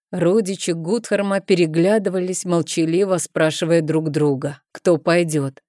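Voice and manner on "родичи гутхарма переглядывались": usual speaking voice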